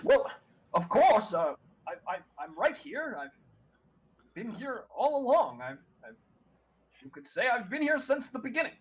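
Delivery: lightly voiced fussy crow, polite and prim; a hint of a prim, pompous bird; talking crow. Crow interrupting the party, lightly voiced prim bird.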